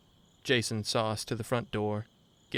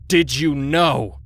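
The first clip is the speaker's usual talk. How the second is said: very loud, slow, higher raging yell; furious yell; 5 semitones higher, 12 dB louder, slower than usual. A narrator's reading. Enraged husband screaming at friend against the wall. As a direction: scream the question into his face. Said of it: "scratchy throat emphasizing his words".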